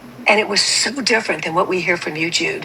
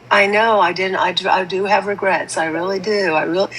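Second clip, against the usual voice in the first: mock monotone robot; 3 semitones lower than usual. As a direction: mimic a cold, emotionless robot saying sorry. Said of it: "to sound like a fish saying".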